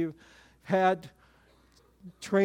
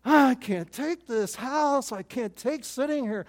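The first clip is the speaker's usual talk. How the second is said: anxious; 5 semitones higher, slower than usual. Retold or imitated. Anxious self retold.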